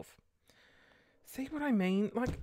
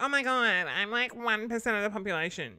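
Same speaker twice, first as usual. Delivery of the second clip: mock smug quiz-taker; 5 semitones higher, 3 dB louder than usual. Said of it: "You're like".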